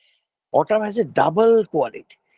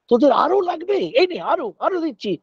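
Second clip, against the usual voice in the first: higher-pitched, lightly acted giving mother; generous Mother Earth; 7 semitones higher, much faster than usual. Mother Earth offering her children more, lightly acted generosity. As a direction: play a mother eagerly handing out more.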